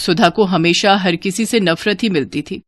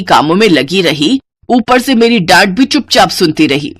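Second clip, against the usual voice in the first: scolding; 4 semitones lower than usual. Acted. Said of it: "सरला लगातार सुकन्या को डांट रही थी".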